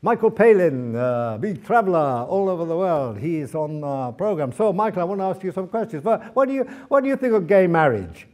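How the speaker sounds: lightly put-on Brazilian-accented English, lifted a little; a cheery radio host's broken English with Brazilian vowels. Favela radio host quizzing his guest, in mild Brazilian-accented broken English. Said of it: "broken English".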